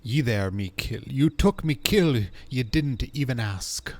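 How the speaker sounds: indignant game captain. Acted. Captain confronts someone for taking the kill, indignant.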